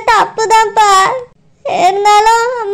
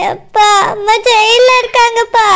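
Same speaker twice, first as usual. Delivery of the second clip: weeping, lower; crying to father; 3 semitones lower than usual. Acted. Daughter tells her father mother is in jail, crying. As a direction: sob it out to dad.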